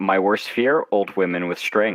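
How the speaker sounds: ordinary talk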